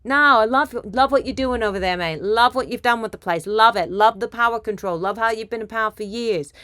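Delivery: loud, gushing mock British praise; Britishy accent. Mocking Trump praising Putin's rule, in a Britishy accent. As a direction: heap on compliments in a put-on British accent. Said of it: "Britishy accent, like that".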